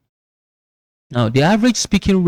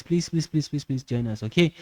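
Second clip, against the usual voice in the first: soft begging; 3 semitones higher, 5 dB quieter than usual. Retold or imitated. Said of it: "Something like that".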